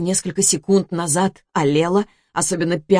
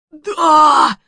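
exhaled confession; 9 semitones higher, 7 dB louder than usual. Acted. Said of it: "выдохнул он".

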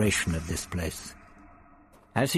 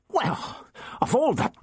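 spluttering; 13 semitones higher than usual. A narrator's reading. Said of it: "he spluttered".

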